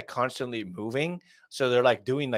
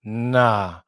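mock dismay; 4 dB louder, much slower than usual. Real, not acted. Mock dismay at trend spreading.

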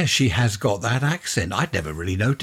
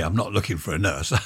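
laughing; 3 semitones lower, faster than usual. Real, not acted. Correcting a funny slip.

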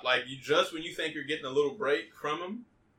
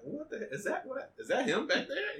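nervous; 11 semitones higher than usual. Retold or imitated. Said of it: "You're like".

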